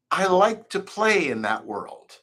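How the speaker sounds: "play" kelimesini vurgula; stress on play. Shown as a demonstration. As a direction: lean on the word "play". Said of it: "on the word play".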